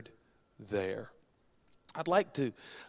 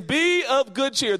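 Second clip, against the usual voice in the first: high, slow, loud proclamation; shouting Jesus; 9 dB louder, slower than usual. Acted. Jesus calls out amid the storm, shouting slowly. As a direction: call out each word slowly. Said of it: "here's Jesus saying".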